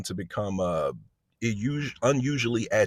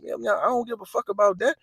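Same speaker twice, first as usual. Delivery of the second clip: put-on dismissive teen; 12 semitones higher than usual. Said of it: "And I'm like".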